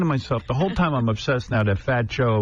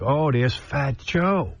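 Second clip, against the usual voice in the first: drawn-out, mildly excited imitation of a child; excited daughter; much slower than usual. Daughter spotting a celebrity for dad, mildly excited. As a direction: imitate a kid slowly announcing a star sighting. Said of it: "My daughter was so excited".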